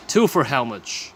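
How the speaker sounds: slow, clear teacher delivery; slow model question. Shown as a demonstration. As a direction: stretch the question out for learners. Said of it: "teacher models the question".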